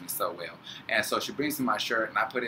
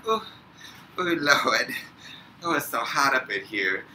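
hammed-up overheated moan; 4 semitones higher than usual. Acting overheated for the fan.

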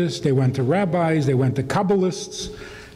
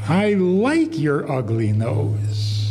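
tender; much slower than usual. Pretend. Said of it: "You say".

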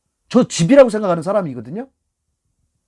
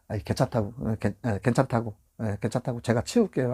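reassuring; 5 semitones lower, 8 dB quieter than usual. Retold or imitated. Reassuring an apologetic passenger.

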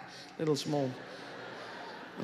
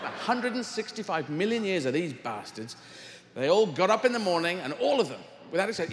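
usual speaking voice

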